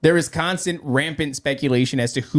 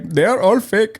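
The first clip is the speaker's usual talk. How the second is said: scammer voice; 6 semitones higher, 4 dB louder than usual. Retold or imitated. Scammer voice acted out.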